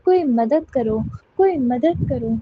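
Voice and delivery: repeated plea building in pitch and volume; acted cry for help. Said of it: "सन्नाटे में चीख रही थी". (मदद के लिए बढ़ती हुई पुकार)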